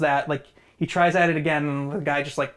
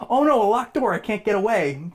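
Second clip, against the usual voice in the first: typical horror victim; 5 semitones higher than usual. Retold or imitated. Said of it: "the typical".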